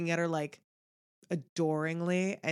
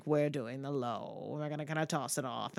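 a low, throwaway voice, dropped way down; a hint of a low, tossed-off mode; 6 semitones lower, 7 dB quieter than usual. Shown as a demonstration. Friend shows the actress's low vocal mode, soft and casual. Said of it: "vocal modes that she goes into".

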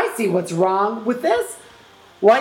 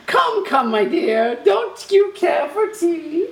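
lightly voiced mad host; playful Hatter voice; 6 semitones higher than usual. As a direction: coax sweetly, a bit high. Voicing Mad Hatter offering tea.

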